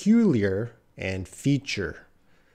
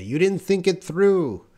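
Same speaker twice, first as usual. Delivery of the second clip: mild reproach; 7 semitones higher than usual. Retold or imitated. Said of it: "And then someone would say".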